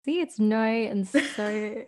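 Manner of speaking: slow Aussie "no" and "so", like "noy" and "soy"; drawn-out mock-Australian demo; fake Aussie accent. Shown as a demonstration. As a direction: show off the Australian vowels in "no" and "so", slowly. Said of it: "fake Aussie accent when we say the word so".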